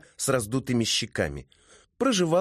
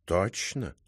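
probing question; 2 semitones lower, 4 dB quieter than usual. Acted. Cat cross-examines the writer.

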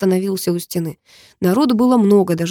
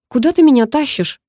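put-on a higher squeaky girl's voice; squeak; 6 semitones higher, 4 dB louder than usual. A narrator's reading. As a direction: squeak it out like a frightened girl. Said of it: "пискнула она". (пискляво, высоким девичьим голосом)

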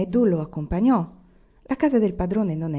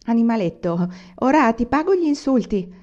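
angry threat; 4 semitones higher, 4 dB louder than usual. A narrator's reading. Angry servant chasing the boy.

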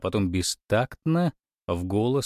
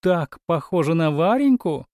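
gushing; 6 semitones higher, 5 dB louder than usual. A narrator's reading. Aunt keeps gushing.

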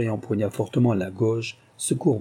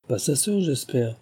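pitying; 4 semitones higher than usual. Acted. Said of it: "d'un ton apitoyé".

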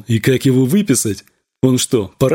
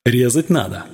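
demonic voice. A narrator's reading. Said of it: "Демонским голосом пел страх".

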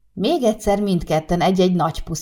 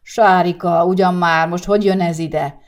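angry bafflement; 5 dB louder than usual. Acted. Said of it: "a méreg és az értetlenség keverékével".

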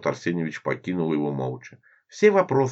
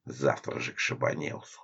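whispered thought; 5 semitones lower, 7 dB quieter than usual. Acted. Edya's angry inner thoughts.

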